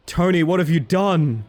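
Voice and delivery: hammed-up dismay. Streamer mock-scolds Tony over his map, hammed-up dismay. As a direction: ham up the betrayal, stretching each word.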